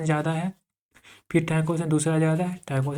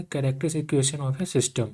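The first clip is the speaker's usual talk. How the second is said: slowish topic announcement; name the next topic calmly; announcing the topic; much slower than usual. Shown as a demonstration. Teacher introducing the next topic, slowly. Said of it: "क्या है?".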